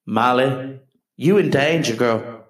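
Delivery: put-on lightly sassy "you in danger, girl"; a hint of a psychic's warning; sassy Ghost quote. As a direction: warn her with mock sass. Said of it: "I just tell her in my own way".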